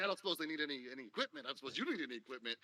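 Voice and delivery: salesman pitch. Acted. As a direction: fish for a sale. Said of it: "remembers that he's a businessman".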